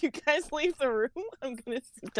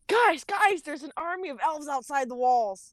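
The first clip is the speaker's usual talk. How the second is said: high-pitched mock yell; yelling alarm; 4 semitones higher than usual. Coming in to warn the guys of elves, mock yelling. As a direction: burst in with an urgent warning, not full volume. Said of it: "I come in yelling".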